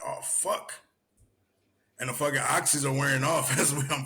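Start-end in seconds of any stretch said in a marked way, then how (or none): 0.0-0.7 a strained whisper of pain; whispered curse. Retold or imitated. Struggling on a bad ankle, whispered curse. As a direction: breathe it out, struggling. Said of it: "I'm like".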